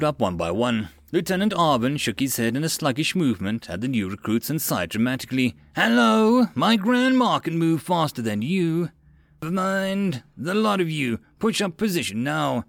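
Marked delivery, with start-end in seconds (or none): 5.8-12.6 high-pitched drill officer roar. A narrator's reading. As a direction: roar at sluggish recruits, loud on the first word. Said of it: "Arvin roared".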